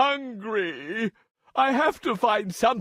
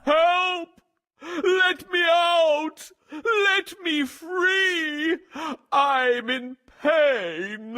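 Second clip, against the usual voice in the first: much higher, desperate slow shout; roaring for help; 7 semitones higher, slower than usual. A narrator's reading. Trapped lion cries out for anyone to free him, desperate shout. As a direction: bellow for help, trapped and hurting. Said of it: "his roaring and crying".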